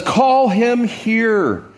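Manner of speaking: slow, firm command; Jesus ordering the blind man brought; commanding call. Acted. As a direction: give the order slowly. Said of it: "That's an imperative, so it's a command".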